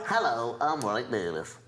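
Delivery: low, thickened copy of the impressionist; mock his caricature, dropping the pitch; mimicking a bad impression. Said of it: "You're going".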